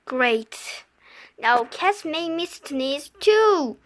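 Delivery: sarcastic. Acted. Sarcastic resignation.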